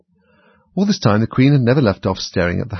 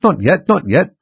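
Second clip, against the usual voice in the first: higher, louder urgent objection; hasty interruption; 8 semitones higher, 6 dB louder, slower than usual. A narrator's reading. Rabbit halting the court, hasty interruption. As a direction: cut in urgently, pitched up. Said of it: "the rabbit hastily interrupted".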